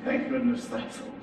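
breathless relieved whisper, quick. Acted. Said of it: "I whispered".

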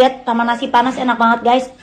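talking while munching crispy chips; words around a mouthful of chips; crunching chips. Real, not acted. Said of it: "Aku lagi makan keripik ikan".

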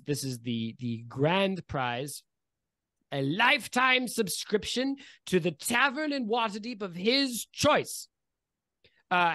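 master of ceremonies presenting a prize; grand announcer patter with relished names; pompous race official. Acted. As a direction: present it grandly, with small hesitations.

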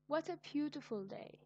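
high, bright exclamation about the day; delighted exclamation. Shown as a demonstration. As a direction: sing out your delight at the day. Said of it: "shows strong feelings".

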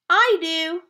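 high, loud eager shout; child shouting. Acted. Bob volunteering to try the kite, high eager shout. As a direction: shout it like an excited kid. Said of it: "Bob shouted".

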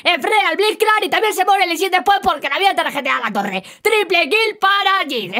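brisk, keyed-up esports caster; animated play-by-play. Acted. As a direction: announce the action with energy. Live play-by-play of a clip. (narración deportiva animada)

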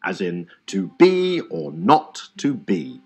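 slowed, with weight on be, not and be; iambic stress. Shown as a demonstration. Teacher showing the iamb in Hamlet's line, slow and stressed. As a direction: lean on every second syllable. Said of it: "the first syllable is unstressed and the second is stressed".

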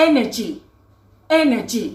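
"energy" as a careful, isolated example word; model pronunciation. Shown as a demonstration. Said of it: "อย่างเช่นคำว่า".

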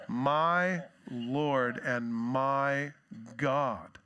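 awed and reverent. Acted. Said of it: "He's saying".

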